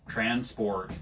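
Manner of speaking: rhotic American accent on transport. Shown as a demonstration. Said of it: "American accent".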